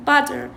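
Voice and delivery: butter with the t softened to a quick d; American flap. Shown as a demonstration. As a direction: say butter as "budder". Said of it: "close to butter". (لفظ butter مثل "بادر")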